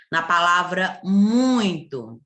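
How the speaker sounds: Na palavra muito, slow and careful; slow model word. Shown as a demonstration. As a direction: say muito slowly. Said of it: "do mesmo jeito". (devagar, mostrando muito)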